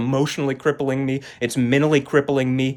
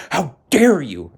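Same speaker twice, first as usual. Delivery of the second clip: drawn-out, louder mock indignation; mock outburst; 3 semitones higher, 5 dB louder, slower than usual. Daughter quoting mom's reaction, slow mock outrage. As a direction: stretch "dare" slowly, imitating someone affronted. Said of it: "That's what that whole outburst was".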